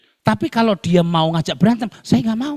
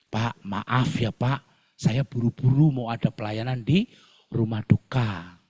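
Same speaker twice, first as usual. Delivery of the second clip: humble apology; 4 semitones lower, 5 dB quieter than usual. Retold or imitated. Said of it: "apologizing to angry driver".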